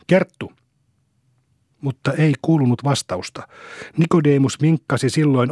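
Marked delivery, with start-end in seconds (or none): 0.1-0.5 high call across the room to wife. A narrator's reading. Husband calls his wife from across the room, raised call. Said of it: "hän muutti ääntänsä ja kutsui".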